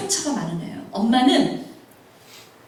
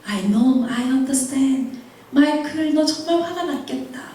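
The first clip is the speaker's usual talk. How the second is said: gentle comfort; much slower than usual. Retold or imitated. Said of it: "내가 왜 화를 내고 소리를 질렀는지".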